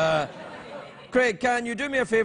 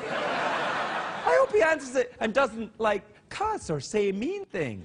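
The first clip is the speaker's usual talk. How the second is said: sweet lady voice; 2 semitones higher, slower than usual. Retold or imitated. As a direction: keep cooing like the gushing fan. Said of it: "a lady over there went".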